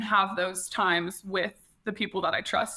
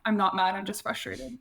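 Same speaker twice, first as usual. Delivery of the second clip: defensive denial. Retold or imitated. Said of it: "Just like that".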